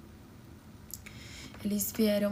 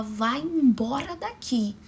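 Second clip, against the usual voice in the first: stern order to leave; 4 dB louder, slower than usual. Retold or imitated. Aunt ordering father out.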